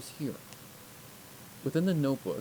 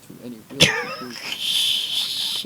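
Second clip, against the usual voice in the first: high, loud, frustrated outburst; angry frustration; 9 dB louder than usual. A narrator's reading. Filly detective venting her frustration, angrily. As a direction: spit it out in exasperation. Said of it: "angry that I was".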